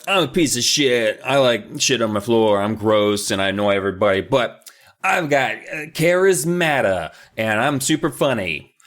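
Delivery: lightly voiced slob kid, bragging; a hint of a proud gross kid, slowing at the end; mock Joe. Joe describing himself to his sister, mock bragging. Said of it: "Joe's just like".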